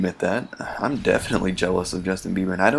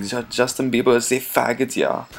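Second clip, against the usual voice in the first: lightly voiced German accent, a hint of the Shrek pigs; a mild mock German accent like the cartoon pigs; 4 semitones higher than usual. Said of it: "That's my German pig voice".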